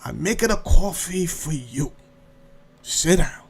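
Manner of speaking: put-on understated Italian-accented insistence; broken-English Italian accent. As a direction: lightly imitate an Italian host's broken English. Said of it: "a broken English conversation".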